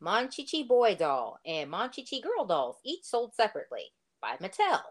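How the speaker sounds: quick ad disclaimer read; toy commercial. Retold or imitated. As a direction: rattle off the fine print fast. Quoting an old toy ad.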